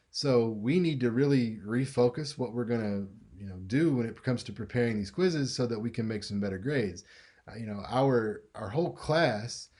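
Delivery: upbeat, encouraging tone to the class; rally the class kindly instead of scolding; positive teacher. Shown as a demonstration. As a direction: friendly coach talking to students. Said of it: "it sounds more positive".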